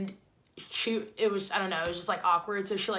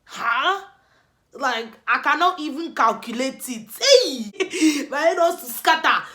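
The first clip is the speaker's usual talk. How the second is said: higher, louder, laughing through the words; laughing disbelief; 4 semitones higher, 5 dB louder than usual. Real, not acted. Telling friends about her chipped tooth, laughing loudly.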